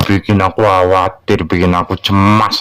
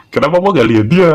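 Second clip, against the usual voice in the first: put-on worried child; 7 semitones higher, faster than usual. Child worried about missing Mama.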